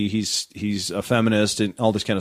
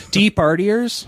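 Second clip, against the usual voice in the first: incredulous; 9 semitones higher, slower than usual. Real, not acted. Incredulous repeat.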